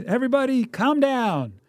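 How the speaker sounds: high-pitched mock yell; imitating mom snapping at the kids; shrill-free high mock mom yell over the backseat noise; mother yelling. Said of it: "And she yells".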